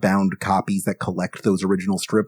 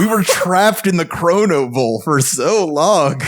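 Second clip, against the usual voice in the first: put-on high slow trembling old man; shaky old voice; 6 semitones higher, slower than usual. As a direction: creak it out like a worn-out old man. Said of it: "Ezra Miller old man".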